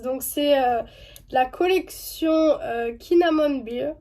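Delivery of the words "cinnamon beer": English name in a French accent. Real, not acted. Vlogger naming a makeup collection, French-accented English. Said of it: "désolé pour mon accent anglais".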